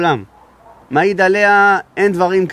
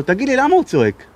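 said out loud; 6 semitones higher than usual. Retold or imitated. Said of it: "אמר את זה בקול רם".

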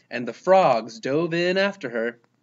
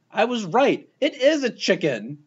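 high, louder, vindicated; triumphant exclamation; 7 semitones higher, 4 dB louder than usual. A narrator's reading. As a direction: crow about being right. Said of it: "exclaimed Marilyn".

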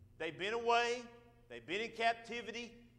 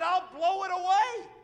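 voice of God; 10 semitones higher, 9 dB louder than usual. Acted. Preacher voicing God.

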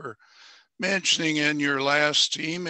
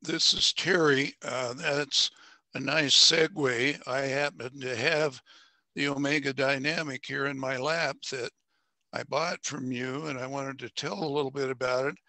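hoarse from a recent fever; raspy voice. Real, not acted. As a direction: speak with a rough raspy throat. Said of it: "Excuse my raspy voice".

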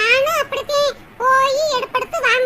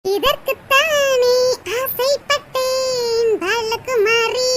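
dramatic film line; much slower than usual. Acted. Gloating quote of a famous film line.

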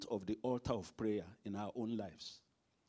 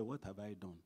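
hushed dismayed voice; 4 semitones lower, 11 dB quieter than usual. Acted. Obadiah's fearful quote.

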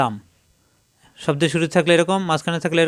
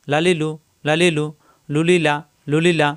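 লা লি লু run together in short groups; quick short vowels. Shown as a demonstration. Teacher drilling short vowels for students, quick joined syllables. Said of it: "হারকাতের উচ্চারণ তাড়াতাড়ি".

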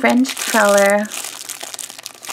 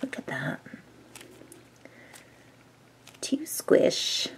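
whispering; 6 semitones lower, 13 dB quieter, slower than usual. Real, not acted. Squishy review, whispering close.

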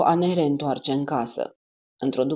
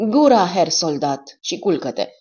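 put-on louder, slow, firm old man's order; firm reply; 2 semitones higher, 5 dB louder, slower than usual. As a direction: shut him up firmly. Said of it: "i-a răspuns ferm".

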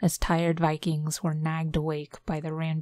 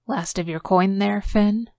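louder, gloating gambler's taunt; smug Viking; 3 semitones higher, 6 dB louder than usual. Acted. Jurgen taunting Finn after winning, louder smug jab. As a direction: needle him over his lost coin.

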